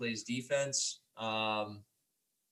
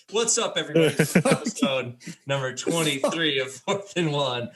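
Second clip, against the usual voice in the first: louder, upbeat podcast greeting; real energetic intro; 3 dB louder than usual. Real, not acted. Host restarts the podcast intro for real, louder and lively. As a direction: kick off the show with a bright, loud hello. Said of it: "I'm just kidding".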